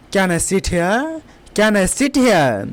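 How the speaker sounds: slow, careful English; slow teacher demo; slow model sentence. Shown as a demonstration. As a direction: say it slowly for learners to repeat. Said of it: "इस type से बोलना है।".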